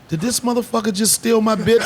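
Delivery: voicing the son, high and laughing; laughing as he voices his son's outrage; laughing through it. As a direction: play the kid's betrayed glare while cracking up. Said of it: "my son looked at me like".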